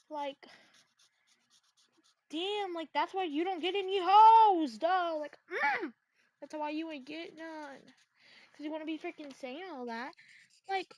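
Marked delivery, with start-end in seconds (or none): 2.9-5.2 louder, mocking jab; loud taunt. Real, not acted. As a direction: throw it at him loudly. Taunting the rejected guy.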